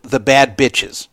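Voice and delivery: slow, laughing mock quote; quoting with a laugh. Quoting Ebony's phrase to the host, slowly and laughing. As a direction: drag out the phrase, amused at the hypocrisy. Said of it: "Ebony referred to her fans in the past as, quote".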